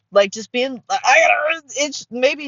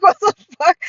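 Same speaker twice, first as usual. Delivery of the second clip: loud, high incredulous blurt; acted shock; 9 semitones higher, 6 dB louder than usual. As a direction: replay your stunned reaction. Recounting shocked reaction to uncut pizza.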